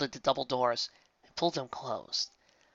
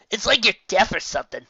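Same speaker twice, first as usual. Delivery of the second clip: teasing; 7 semitones higher, 7 dB louder than usual. Acted. Rainbow Dash teasing.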